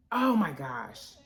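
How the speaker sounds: normal talking voice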